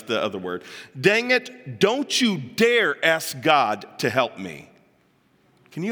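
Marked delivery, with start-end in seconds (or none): 1.0-4.7 mock yell, forceful and drawn out; Joan Crawford. Crawford rebuking her praying housekeeper, acted angry yell. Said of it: "yelled at her housekeeper and said".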